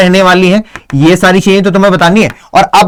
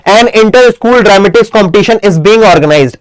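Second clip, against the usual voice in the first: slow, word-by-word dictation of the notice line; much slower than usual. Shown as a demonstration. Teacher dictating a notice to the class, slow and deliberate. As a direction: read it out slowly so students can copy. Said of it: "Target group".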